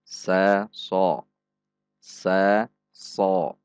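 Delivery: "Sa" thin, then "so" heavy; "Sa, so" said thin then thick; thin versus heavy sad. Shown as a demonstration. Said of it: "sama persis dengan huruf sin".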